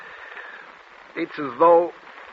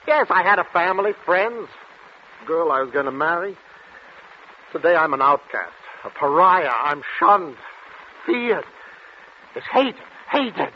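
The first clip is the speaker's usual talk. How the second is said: anguish rising higher until the voice breaks on hated; desperate outburst; 5 semitones higher than usual. Acted. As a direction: plead with the doctor, building to a cracking cry. Patient's desperate outburst to doctor.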